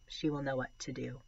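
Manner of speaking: storytelling read-aloud voice; story narration. A narrator's reading. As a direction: read it like a middle grade novel. Reads a novel aloud.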